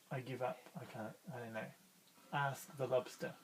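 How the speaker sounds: low soft defeated mutter; defeated fish. Acted. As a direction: mumble it like you've quit. Fish gives up.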